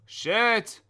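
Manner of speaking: sudden startled outburst. Real, not acted. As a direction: blurt it after a fright. Jump scare.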